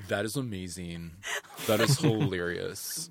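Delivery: put-on low, slow deadpan French accent; bored French diner, no laugh. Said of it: "That was my French accent".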